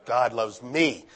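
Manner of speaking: God loves me said very slowly; slow, heartfelt call and response; slow, personal. Shown as a demonstration. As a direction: stretch out God loves me, leading the congregation. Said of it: "Now make it personal".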